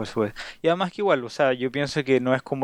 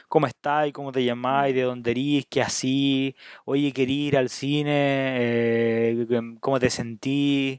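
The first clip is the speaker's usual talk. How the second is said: casual Chilean Spanish, "erís" and "querís" without the final s; Chilean slang. Shown as a demonstration. Teacher demonstrates Chilean speech to a curious friend, casual Chilean. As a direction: rattle it off like a Santiago local. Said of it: "la voy a cambiar".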